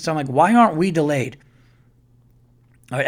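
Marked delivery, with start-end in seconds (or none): 0.3-1.4 retold nervous question, pushed louder. Anxious traveler asks the kid beside him about delays, nervous. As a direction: act out an anxious, insistent question. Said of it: "I got nervous".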